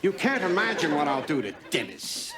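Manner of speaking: a teacher fuming about a missing student, murmuring low threats. Acted. Menacing low murmur.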